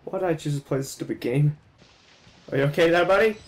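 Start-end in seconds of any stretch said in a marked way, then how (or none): 2.5-3.4 teasing high voice. Real, not acted. Talking to game character mockingly.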